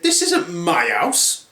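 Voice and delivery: put-on voice climbing high; Goldilocks. Girl asked about the house, puzzled protest. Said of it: "Goldilocks then said".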